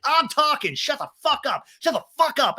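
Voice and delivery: very high, furious imitation; mock screaming. Lala screaming over castmates, high mock fury. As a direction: shriek over the others in mock rage. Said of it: "people are just screaming over you".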